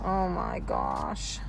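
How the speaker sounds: deep, slow stunned oh my gosh. Real, not acted. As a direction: drop low in disbelief. Realizing she overpaid mom.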